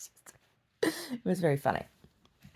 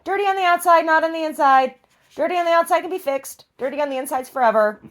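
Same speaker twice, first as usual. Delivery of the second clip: much higher, sing-song voice soothing the dog; pet talk; 12 semitones higher, 8 dB louder than usual. Real, not acted. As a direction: reassure the muddy dog sweetly. Comforting the dog.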